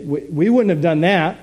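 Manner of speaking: a preacher mocking smug believers; smug self-satisfied voice. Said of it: "we say".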